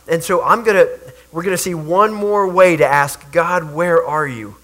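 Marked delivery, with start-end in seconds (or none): 3.3-4.6 slow, humble question to God; repentant. Acted. A repentant believer asking God, slow and humble. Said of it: "an attitude of repentance".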